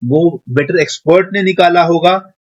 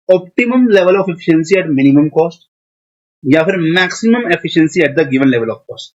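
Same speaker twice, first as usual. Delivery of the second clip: slow, careful textbook reading; slow dictation read; 2 semitones lower, much slower than usual. Shown as a demonstration. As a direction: spell out the definition for notes. Reads definition slowly.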